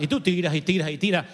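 fast, rattled-off repeated action; obstinate repetition. Acted. Preacher mimicking someone who keeps throwing, obstinate repetition.

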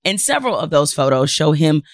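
measured, emphatic news-commentary delivery; deliberate monologue with pointed pauses; scripted commentary read. Acted. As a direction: read it out like an indignant editorial, leaning on key words. Host reads scripted commentary segment.

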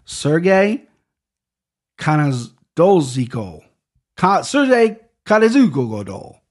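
Russian name said in a jokey mock Japanese accent. Shown as a demonstration. Pundit retrying a fighter's name in a mock Japanese accent. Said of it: "I did that in a Japanese accent".

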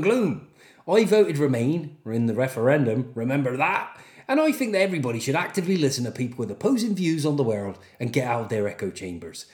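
teasing put-on Norwich accent. Podcaster winding up an Ipswich fan, mock Norwich. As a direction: tease with a Norwich country accent. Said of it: "sound like you're from Norwich just to piss you off".

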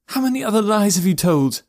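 loud, high bitter accusation; angry accusation. A narrator's reading. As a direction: accuse him, furious. Elora keeps accusing.

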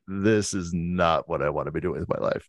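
low, soft, world-weary imitation; imitated weariness. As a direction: voice someone worn down and fed up. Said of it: "you can hear the weariness in his voice".

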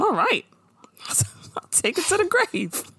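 high, breathy whisper through a laugh. Retold or imitated. Maya conceding to Joan, whispered through a laugh. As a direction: hush it out with a giggle. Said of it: "I like the way she says it".

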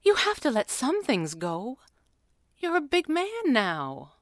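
mild motherly chiding, pitch lifted; gentle scolding. A narrator's reading. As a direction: coax him while gently scolding. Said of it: "scolding him gently".

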